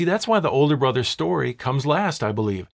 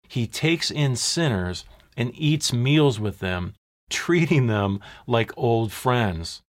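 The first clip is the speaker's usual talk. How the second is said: slow, weighty reading of the Pharisees' complaint; slow grumbling quote; slower than usual. Acted. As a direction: drag each word out as if reading their grumble aloud. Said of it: "Look what they growled".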